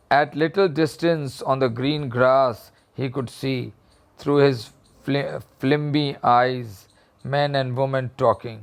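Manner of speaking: reading the story slowly, word by word. A narrator's reading. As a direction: read it out slowly for the class. Teacher reads the story aloud. (धीमी आवाज़ में कहानी पढ़ना)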